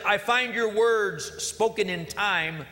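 slow, spoken song lyrics; slow lyric recitation; reciting lyrics. Shown as a demonstration. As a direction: read the verse slowly, savoring them. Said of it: "The second verse says".

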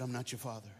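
a soft whisper of a confession. A narrator's reading. The father confessing to the boy, softly whispered. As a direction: confess it quietly. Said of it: "the father whispered".

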